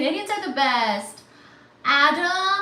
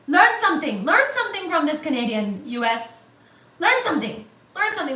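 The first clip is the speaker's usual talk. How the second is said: mock scolding; 3 semitones higher, 5 dB louder, faster than usual. Lecturing other viewers in jest.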